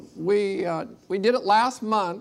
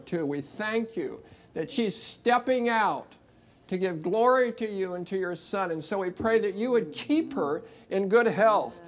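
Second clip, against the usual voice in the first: prayer. Acted. Prays over Kaylee.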